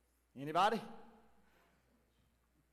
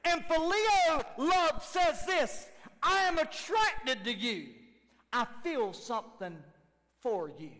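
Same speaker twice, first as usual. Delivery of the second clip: preached shout; 5 semitones higher, 3 dB louder, slower than usual. Acted. Preaching phileo love.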